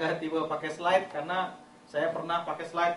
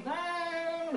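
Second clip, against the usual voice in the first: sung-out nang much higher; higher step; 8 semitones higher, 4 dB quieter than usual. Shown as a demonstration. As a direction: mark the pitch step up on nang. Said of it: "Ayat kedua lebih tinggi lagi".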